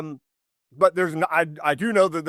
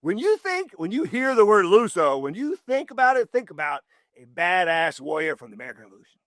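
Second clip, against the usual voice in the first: emphatic pitch. Retold or imitated. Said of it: "I've been saying".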